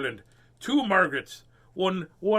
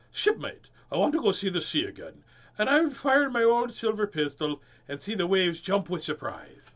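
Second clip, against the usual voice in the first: lady pirate voice; 4 semitones higher, 3 dB louder than usual. Acted. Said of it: "Still sounds like, a lady pirate voice".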